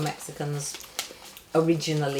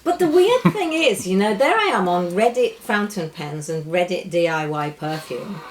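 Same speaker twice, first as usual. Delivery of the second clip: ordinary talk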